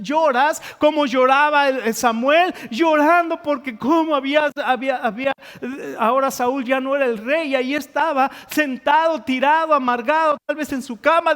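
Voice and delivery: pressing, emphatic pulpit voice; impassioned preaching. Real, not acted. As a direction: preach it with mounting urgency. Preaches Samuel's weeping.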